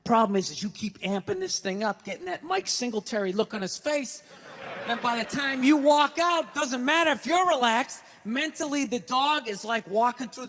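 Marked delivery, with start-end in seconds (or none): none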